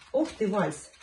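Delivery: high, loud delighted praise; squeaky praising a dog. Real, not acted. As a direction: cheer the dog on brightly. Owner praising dog's waltz trick. (писклявая похвала собаке)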